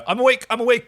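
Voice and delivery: playful imitation of a groggy man; mock panicked John. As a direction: blurt it like someone jolted awake mid-crisis. Voicing John waking in panic.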